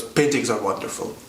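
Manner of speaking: a hint of an old shopkeeper, low-key; understated quote of the little old man; lightly voiced old man. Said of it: "And he goes".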